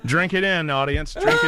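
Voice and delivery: mock grand announcement; hammed-up showman. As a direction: play it up for the cameras. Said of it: "playing to the TV audience".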